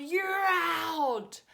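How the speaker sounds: loud high mock yell of a taunting boy. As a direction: bark it out like a gloating kid. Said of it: "he came over and just yelled".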